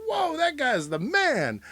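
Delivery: high, slow amazed voice; slow mock singer. Host voices a rock singer amazed, high and slow. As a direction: marvel at the guy. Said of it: "And a singer is like".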